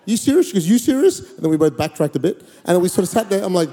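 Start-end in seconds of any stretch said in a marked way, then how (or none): 0.1-0.5 re-enacted disbelief. Disbelief at her answer. 0.7-1.2 re-enacted disbelief. She echoes his disbelief.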